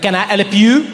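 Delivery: put-on put-upon offer of help in a French accent; grudging French-accented question, lifted at the end; annoyed French shop clerk. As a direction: ask as if helping is a bother. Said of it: "an annoyed voice behind me".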